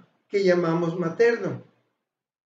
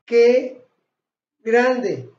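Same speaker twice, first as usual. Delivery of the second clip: exclamation demo; 6 dB louder than usual. Shown as a demonstration. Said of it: "Si yo quiero decir".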